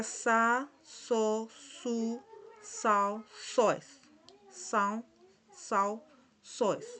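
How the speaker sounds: syllables sa, so, su, sao, soes with a clear S. Shown as a demonstration. Teacher shows learners the ç, sounding sa, so, su with S. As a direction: model each of sa, so, su apart, like a letter S. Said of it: "Como si fuera una letra S".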